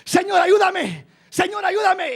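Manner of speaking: preacher mimicking a believer crying out to God; mock pleading cry. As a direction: plead like someone caught in temptation. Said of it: "gritándole".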